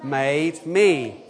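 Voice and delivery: very slow, every word spaced for all to join; slow recitation. Shown as a demonstration. Leading children and adults in saying it together, very slow. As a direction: lead the group, stretching each word. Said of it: "Do you wanna say it?".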